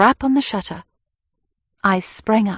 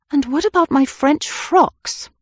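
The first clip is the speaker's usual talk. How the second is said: higher, louder teasing wail; mock lament; 7 semitones higher, 5 dB louder than usual. A narrator's reading. Anne teasing Harry about her frocks, mock lament. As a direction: tease him with a fake complaint. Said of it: "I lamented mockingly".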